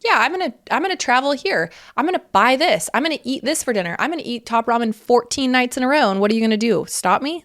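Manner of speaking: high, giddy single-life boast; carefree and free. Retold or imitated. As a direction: gleefully list what you'll do, daring anyone. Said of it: "so freeing to be like".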